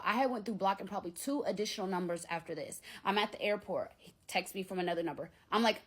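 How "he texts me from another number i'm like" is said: usual speaking voice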